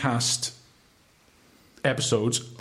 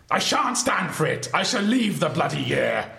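mock posh indignation; 4 semitones higher than usual. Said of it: "Tom, your choices are".

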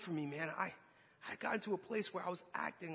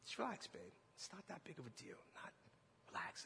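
very soft, hushed calming voice, imitated; soothing wife; 15 dB quieter than usual. Wife calming her fidgeting, livid husband, soothing. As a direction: imitate a wife quietly talking him down.

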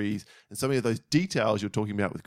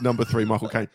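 put-on shithouse English accent; 2 semitones lower than usual. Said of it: "in an English shithouse accent".

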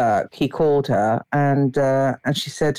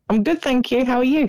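posh voice; 9 semitones higher than usual. Real, not acted. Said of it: "you trying to find a posh voice".

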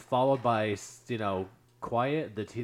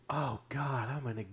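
retold dread; 6 dB quieter than usual. Teller's dread on realizing the disaster.

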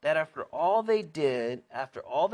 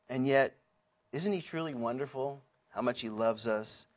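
usual speaking voice

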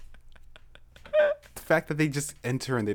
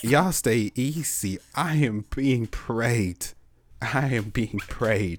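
put-on Southern accent. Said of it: "let's do it in a country accent".

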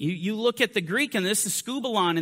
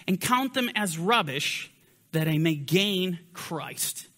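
scripture reading. Acted. Reads scripture passage aloud.

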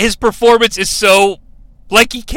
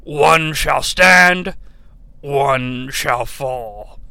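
very slow, low, softer solemn declaration; Optimus Prime; 6 semitones lower, 3 dB quieter, much slower than usual. Retold or imitated. Optimus declares before the duel, slow and grave. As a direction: intone it like a noble commander. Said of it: "The classic Optimus Prime".

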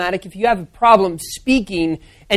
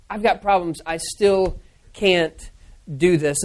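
quieter, very slow, giving up; defeated mumble; 3 semitones lower, 5 dB quieter, slower than usual. Retold or imitated. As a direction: let each word sink, beaten down. Moses complaining to God.

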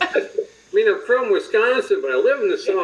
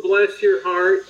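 Southern bless your heart; slower than usual. Retold or imitated. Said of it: "If somebody tells you".

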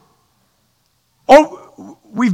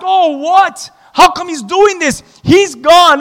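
mock complaint; 4 semitones higher than usual. Preacher acting out complaining crowd.

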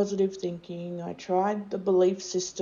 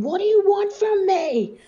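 raw high scream, much louder and higher; a desperate, cracking howl at the heavens; screaming at the sky; 13 semitones higher, 9 dB louder than usual. Retold or imitated. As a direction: scream it up at the sun in despair. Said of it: "I just started screaming at the sun".

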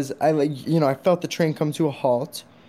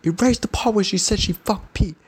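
mock the giant husband's outrage, pitch way up; imitating an angry guy; 8 semitones higher than usual. Huge husband confronting the podcaster, hammed-up high mock anger. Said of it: "husband demanding erasure".

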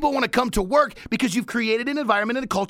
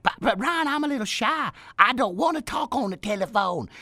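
shy listener; 4 semitones higher than usual. Retold or imitated. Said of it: "You're like".

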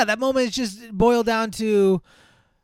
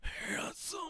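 vain Kirk; 8 semitones higher, 14 dB quieter, much slower than usual. Retold or imitated. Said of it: "his eyes are just, like".

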